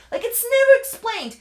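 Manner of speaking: never punched high and loud; "it's never explained" with never spiked up; stress on never. Real, not acted. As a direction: hit never hard in exasperation. Ranting about plot hole.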